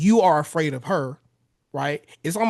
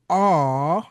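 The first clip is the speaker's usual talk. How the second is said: drawn-out, louder soothing croon; 5 dB louder than usual. Shown as a demonstration. Husband soothing his upset wife, crooned low tone. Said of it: "drop your voice to a low tone, like a, like a, like a crooner".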